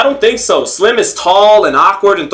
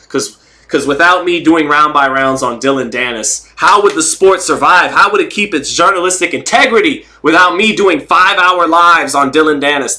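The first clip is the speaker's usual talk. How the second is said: tongue-in-cheek grandstanding; mock self-importance. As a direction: plead your own importance with mock earnestness. Joking about his own importance.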